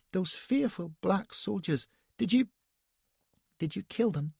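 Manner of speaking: put-on high-pitched, petulant, breathless young lady; a shaken, indignant society wife; Elsbeth, fluttery young wife. A narrator's reading.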